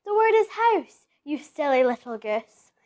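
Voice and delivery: lightly voiced teacher looking down on a child; teacher scoffing at a pupil, mildly mocking. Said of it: "His teacher scoffs".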